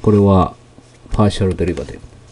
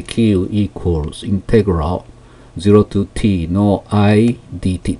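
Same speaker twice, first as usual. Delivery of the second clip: slow reading of Q equals integral, word by word; slow, deliberate reading of Q equals integral zero to T; careful model reading; slower than usual. Shown as a demonstration. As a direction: read the formula slowly like a teacher. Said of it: "読みますね".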